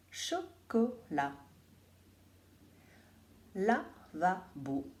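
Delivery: very slow, syllable by syllable chocolat; slow, stretched. Shown as a demonstration. Teacher dictating words slowly to children. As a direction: stretch each syllable of lavabo. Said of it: "Essayez de trouver quelle est la syllabe".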